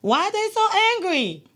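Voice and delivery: high, loud, incredulous question; high, loud, baffled disbelief; quoted first impression. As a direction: ask it like you can't believe it. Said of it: "impression was".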